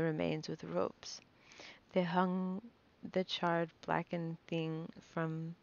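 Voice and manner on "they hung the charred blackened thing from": slow, choked-up reading, fighting tears; holding back tears. Real, not acted. Narrator reading a mother's death, close to tears. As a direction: swallow the words as tears rise. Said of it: "I'm trying not to cry".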